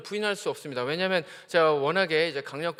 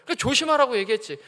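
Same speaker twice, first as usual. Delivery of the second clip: mock scolding; 4 semitones higher, 4 dB louder than usual. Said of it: "막 야단치고".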